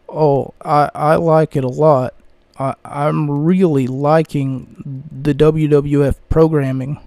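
slow, flat monotone. Retold or imitated. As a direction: drag it out with no inflection. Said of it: "no infla-, inflation behind it".

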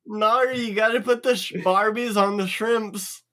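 joking mock Australian; Australian accent. Player joins in the down under lesson, Australian accent. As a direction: play along in a put-on Australian accent. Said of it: "talk like you're from down under".

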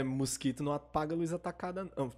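tipsy, slurring the words. Real, not acted. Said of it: "eu tô bêbado já".

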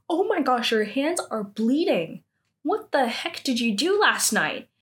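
high mock-alarmed outburst; freaking out. Seeing bleeding hands, acted freak-out. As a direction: imitate someone freaking out at a discovery. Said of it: "and she freaks out".

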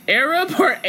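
"Arab" said first as "AIR-ab" then as "AH-rab"; two pronunciations of Arab. Shown as a demonstration. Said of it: "How do you say Arab".

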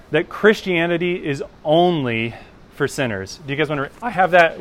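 ONLY stretched and punched in "Christianity is only for sinners"; all-caps emphasis. Real, not acted. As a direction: declare it firmly, leaning hard on "only". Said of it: "like, in all caps and bold".

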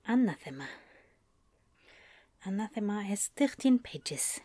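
staccato Spanish accent with even syllables; lightly done Spanish accent, five pure vowels. Shown as a demonstration. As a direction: try out a Spanish-accented English. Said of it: "a little bit of a test run".

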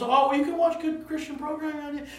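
a hint of a whiny excuse-maker; mock excuse. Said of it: "the argument always comes".

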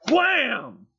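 loud, high shouted wham; crash sound effect. Pretend. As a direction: yell the impact noise.

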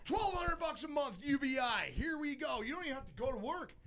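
high-pitched mocking sales pitch; high mock hype. Host mocking monthly handouts, in a high hyped-up voice. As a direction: keep it squeaky and sarcastic.

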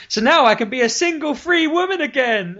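high, loud, carefree squeal; mock giddy Chun-Li. Chun-Li at dad's grave turns party girl, giddy. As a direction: switch from mourning to party girl. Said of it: "she's like".

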